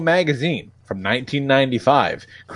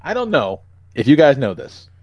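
clickbait video narrator. Pretend.

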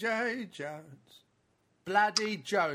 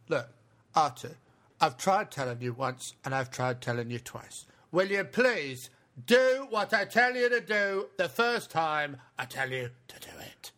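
Michael Caine impression. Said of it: "Michael Caine is C three P O".

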